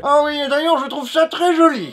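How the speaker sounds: put-on high-pitched old man's voice; admiring old headmaster. Old headmaster compliments the Dark Lord's sleeves, sweetly high.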